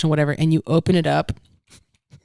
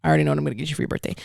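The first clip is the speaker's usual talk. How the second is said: fast quoted boast; 3 semitones lower, 5 dB quieter, much faster than usual. Retold or imitated. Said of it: "I go, I go".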